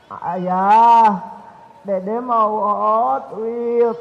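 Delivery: put-on slow, low little-kid plea drawn out; mock child begging father for a toy. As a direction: beg like a small boy asking for a toy.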